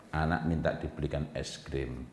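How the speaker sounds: ordinary talk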